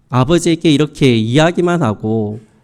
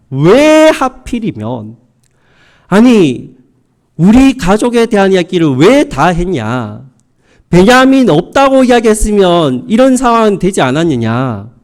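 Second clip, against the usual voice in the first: reproachful father. Acted. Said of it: "라면서 이 자녀들을 원망하고".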